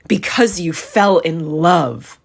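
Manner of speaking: mock his reason with a slow growl. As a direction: growl it back at him with contempt. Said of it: "growled Scrooge".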